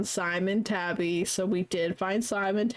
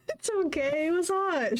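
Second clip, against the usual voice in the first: higher, giggling quote; laughing; 9 semitones higher than usual. Real, not acted. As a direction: giggle the line.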